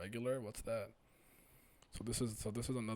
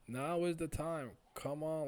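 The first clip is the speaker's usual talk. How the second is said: urging; 6 semitones higher, 4 dB louder, slower than usual. Acted. Acts a character urging escape.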